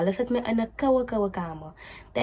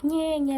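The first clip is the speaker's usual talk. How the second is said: mock baby whimper; 7 semitones higher than usual. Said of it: "her cries is not like".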